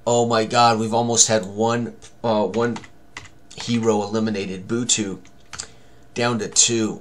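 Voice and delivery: normal talking voice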